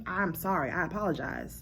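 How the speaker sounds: low, soft acted apology; quiet, caring make-up tone; compassionate apology. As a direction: say sorry gently, voice dropped. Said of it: "you should have been compassionate".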